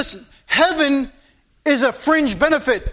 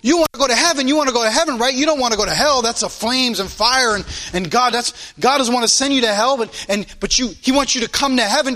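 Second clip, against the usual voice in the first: mocking imitation; faster than usual. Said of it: "these child evangelism things".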